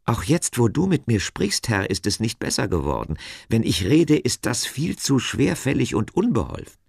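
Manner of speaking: high, pleading excuse; Moses, protesting. A narrator's reading. Moses tells God he cannot speak well, pleading.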